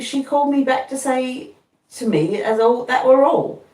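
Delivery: a gentle hint of earnest Joe; Joe's voice. A narrator's reading. Joe quoting Miss Havisham.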